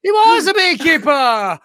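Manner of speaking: loud, slow, high shouted answer; mock shout. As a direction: bellow it out like a triumphant guess. Shouted echo of the clue.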